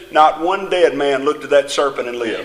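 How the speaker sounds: "not one dead man" said low and firm, without hesitation; emphatic statement. Real, not acted. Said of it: "I want to say to you emphatically".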